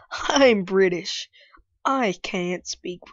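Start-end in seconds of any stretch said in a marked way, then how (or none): 0.1-1.3 slow, put-on British accent on "I'm British"; mock British accent. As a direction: try a British accent, drawn out. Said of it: "I wish I was British".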